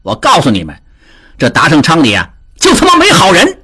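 音调高、语速快的急眼争辩; 急得脸红脖子粗地辩白; 急赤白脸. A narrator's reading. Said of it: "达庆急赤白脸地说". (达庆被人揭短，急赤白脸地高声辩解)

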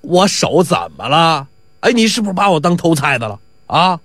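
indignant rogue. Acted. Faker indignantly accuses watchman.

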